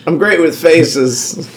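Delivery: slow, drawn-out mimicry of a friend; mock him slowly, arms reaching out; mimicking a friend. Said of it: "He's great with faces, and he stretches his arms out".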